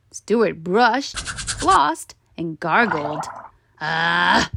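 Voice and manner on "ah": weak moan. A narrator's reading. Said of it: "moaned the tooth weakly".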